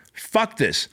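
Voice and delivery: second "Fuck this" escalates into a battle cry; furious outburst. Retold or imitated. Boss watching his gyms shut down, escalating fury. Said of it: "I was like".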